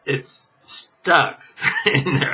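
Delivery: slow words broken by a laugh. Real, not acted. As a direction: laugh it out slowly, giving up on the shot. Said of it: "I'm laughing because".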